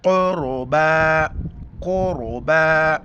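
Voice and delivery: slow chanted "क़ुरबा" with a heavy R; thick R. Shown as a demonstration. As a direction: thicken the R of "क़ुरबा", hold the last vowel. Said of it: "यहाँ पर मोटा करके पढ़ेंगे". ("क़ुरबा" में रा मोटा)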